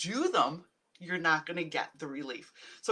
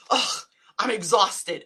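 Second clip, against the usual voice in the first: mock exhausted groan; 7 dB louder, slower than usual. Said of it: "One of my favorite ones is".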